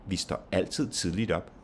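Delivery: "altid", "tidligt" and "op" stressed, "Vi står" light. Shown as a demonstration. Teacher's two-adverb example, stress on "altid", "tidligt", "op". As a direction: give weight to "altid", "tidligt" and final "op". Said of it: "you have the stress on altid".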